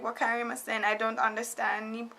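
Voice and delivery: helpless foreigner. Retold or imitated. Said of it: "I'm just like".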